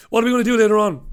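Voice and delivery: loud, high French caricature; mock French person. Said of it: "That's how they speak".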